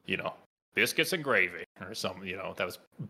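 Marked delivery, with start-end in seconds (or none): 0.7-1.6 light attempt at a Southern accent. Shown as a demonstration. Example of imitable speech, mild Southern accent. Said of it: "not like the Southern accent".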